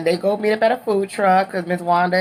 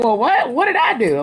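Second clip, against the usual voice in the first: indignant surprise; 6 semitones higher than usual. Retold or imitated. Stormy shocked at the news.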